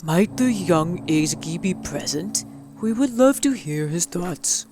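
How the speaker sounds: cheery clipboard canvasser. Acted. Clipboard people greeting Mister Van Horn politely. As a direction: sell them a friendly chat.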